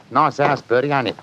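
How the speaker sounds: chatty put-on Cockney workman; casual Cockney small talk; Cockney accent. Inspector chatting to his mate Bertie, Cockney accent. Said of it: "My Cockney accent".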